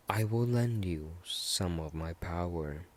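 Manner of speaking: slow, whispery voice inside the head; Johnny Blaze. Retold or imitated. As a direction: lend it a slow, eerie half-whisper. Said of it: "in the back of his head".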